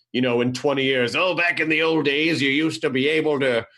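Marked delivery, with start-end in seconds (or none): 1.1-3.7 lightly voiced old-timer reminiscing; a hint of a creaky old man. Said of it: "Is that your old man voice?".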